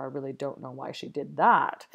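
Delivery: that pressed at the end of the line; stress on that. Shown as a demonstration. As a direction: land the weight on the final that. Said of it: "various different ways to say this".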